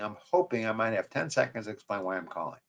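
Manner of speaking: I'm hoping, the word hoping given weight; hoping leaned on, rest of line said through; stress on hoping. Shown as a demonstration. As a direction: press on hoping. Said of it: "emphasis on hoping".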